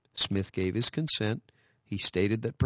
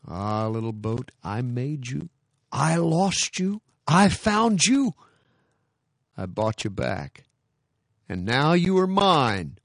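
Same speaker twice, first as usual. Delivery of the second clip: tender muttering; 4 semitones higher, 5 dB louder than usual. Retold or imitated. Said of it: "he muttered".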